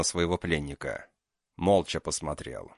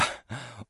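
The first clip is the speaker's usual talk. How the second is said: dreamy laugh; 6 semitones higher, 11 dB quieter than usual. Acted. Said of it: "протянул зверь мечтательно".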